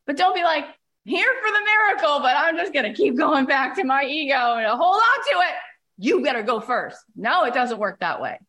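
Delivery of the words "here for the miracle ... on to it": mock attitude. Mocks a half-open attitude.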